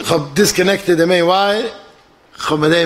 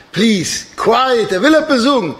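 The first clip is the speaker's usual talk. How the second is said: retold pleading shout; 6 semitones higher, slower than usual. Pilot begging passengers for silence, mild mock shout. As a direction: imitate calling out over a noisy crowd. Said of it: "Aber er schreit".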